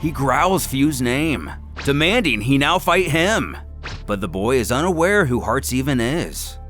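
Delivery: usual speaking voice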